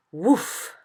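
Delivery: sudden loud whoosh of breath; blown puff. A narrator's reading. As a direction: imitate a big puff blown through a trumpet. Imitated sound of trumpet blow.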